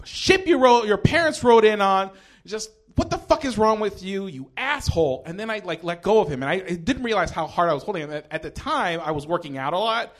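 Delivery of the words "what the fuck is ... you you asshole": mildly heated retold rant; laying into him. Comic retells berating a man, mildly angry. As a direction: retell chewing someone out. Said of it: "laid into him".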